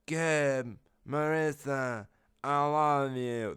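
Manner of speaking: slow, high, drawn-out last words; dying farewell. Acted. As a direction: put on a fading deathbed voice. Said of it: "Then she died".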